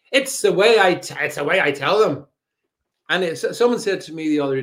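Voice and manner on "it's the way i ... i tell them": Frank Carson catchphrase. Retold or imitated. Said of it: "you sounded like Car-, Frank Carson then".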